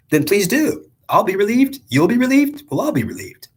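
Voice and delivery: rising from calm to high excited pleading; God speaking. Acted. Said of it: "So the God says".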